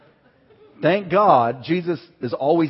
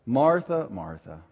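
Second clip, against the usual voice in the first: gentle call; 3 semitones lower, slower than usual. Retold or imitated. Scene: Jesus gently calls Martha back to him, tender. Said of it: "He's gentle".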